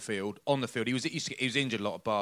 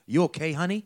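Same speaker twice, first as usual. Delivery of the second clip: mock tender; 4 semitones higher than usual. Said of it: "he said".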